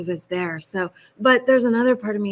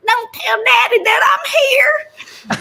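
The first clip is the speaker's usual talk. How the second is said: much higher, louder and slow, half-crying, half-shouting, with a laugh; ridiculous country girl; 8 dB louder, slower than usual. Shown as a demonstration. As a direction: wail "Don't tell daddy that I'm here" high and drawn out, like an over-the-top country kid. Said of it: "I would really love to do something really ridiculous".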